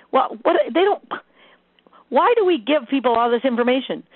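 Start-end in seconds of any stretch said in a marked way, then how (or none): none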